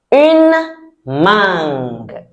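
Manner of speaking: Une mangue slow and clear, French u; teacher modelling Une mangue for the class; slow French model. Shown as a demonstration. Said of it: "You're supposed to say that after me".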